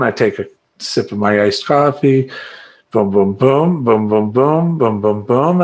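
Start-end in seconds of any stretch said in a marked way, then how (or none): 2.9-5.6 clicker beats. Shown as a demonstration. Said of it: "I set my clicker down".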